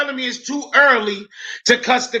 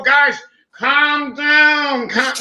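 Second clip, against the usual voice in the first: drawn-out mock soothing plea; mocking timid calm-down; much slower than usual. Mocking the guy in the pub who begs guys to calm down. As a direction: stretch it out like a nervous peacemaker. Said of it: "do you go".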